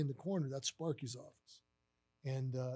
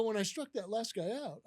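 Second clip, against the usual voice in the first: puzzled echo; 5 semitones higher than usual. Retold or imitated. Manager echoing his boss's mistake, puzzled. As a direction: repeat it back, baffled.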